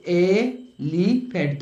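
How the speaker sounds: एलिफेंट said very slowly with a clear opening ए; teacher modeling एलिफेंट with the vowel start; slow spoken model. Shown as a demonstration. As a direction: draw out एलिफेंट so the vowel is heard. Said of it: "तो क्या इसका sound निकालते".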